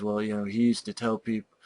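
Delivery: a hint of the dull actor; mock flat line reading; monotone date.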